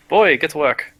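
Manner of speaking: giving orders. Acted. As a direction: order the apprentice to it. Dwarf orders his apprentice about.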